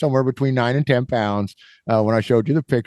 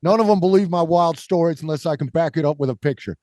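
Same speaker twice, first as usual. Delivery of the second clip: higher-pitched imitation of a New Yorker; mock New York accent; 5 semitones higher than usual. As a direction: keep pleading in a bad New York accent. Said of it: "New York guy said".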